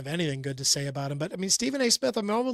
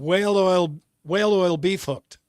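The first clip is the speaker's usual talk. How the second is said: fast tongue twister; 4 dB louder than usual. Shown as a demonstration. Host asks him to say it fast. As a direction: rattle the words off fast. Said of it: "say those middle four words fast out loud".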